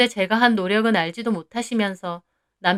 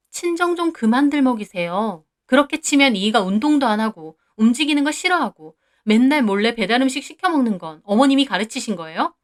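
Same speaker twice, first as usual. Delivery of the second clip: heated retort. Acted. Wife talking back to her mother-in-law, heated. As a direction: fire back at her, indignant.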